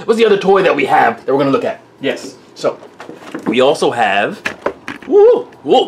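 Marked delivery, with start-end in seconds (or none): 5.1-5.9 sudden startled whoa. Real, not acted. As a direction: react to a near accident. Camera nearly knocked.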